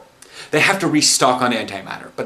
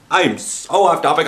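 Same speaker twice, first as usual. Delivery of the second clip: too much caffeine; 5 semitones higher than usual. Real, not acted. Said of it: "I'm so caffeinated right now".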